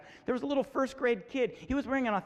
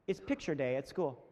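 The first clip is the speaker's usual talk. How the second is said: lower, measured mock confidence; confident little girl; 5 semitones lower, 4 dB quieter than usual. Six-year-old announcing picture day to her parents, very confident. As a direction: imitate a composed, assured child. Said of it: "very confident".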